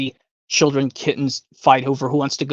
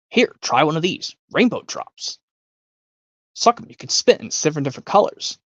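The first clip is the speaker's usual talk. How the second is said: Wonka offering candy. Retold or imitated. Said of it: "from Willy Wonka".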